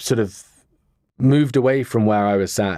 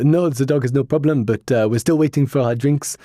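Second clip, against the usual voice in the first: light imitation of a French accent, a touch higher; Elise's French accent; 4 semitones higher than usual. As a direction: lightly mimic a Frenchwoman speaking English. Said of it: "in this wonderful French accent".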